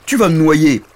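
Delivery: lightly voiced dragon, starting loud and high; a hint of a blustery dragon; exclaiming dragon. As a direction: counsel a tearful little knight. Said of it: "dit le dragon".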